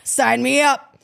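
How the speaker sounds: eager quote. Retold or imitated. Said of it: "And I'm like".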